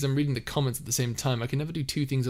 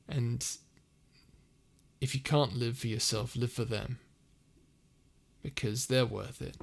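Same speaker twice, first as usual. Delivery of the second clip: sincere advice. Acted. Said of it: "do an advice speech".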